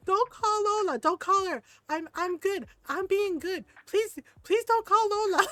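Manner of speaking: high, loud, frantic pleading; screaming child. Retold or imitated. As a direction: imitate a panicked kid begging. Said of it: "screaming into the room".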